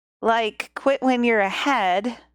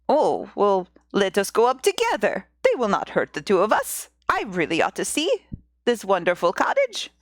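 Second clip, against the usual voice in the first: low, easygoing persuasion; a hint of a low-voiced old husband; lightly voiced old man; 4 semitones lower than usual. Old man coaxing wife up to the cottage, low voice.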